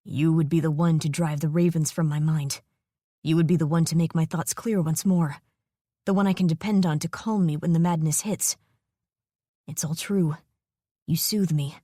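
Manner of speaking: a calm dragon explaining the bond; solemn, possessive dragon; dragon mate voice. Acted. Dragon voice speaks in her mind.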